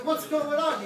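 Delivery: high, loud alarmed question. Retold or imitated. Driver confused by the GPS, loud alarmed question. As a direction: sound thrown by the car. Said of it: "I said".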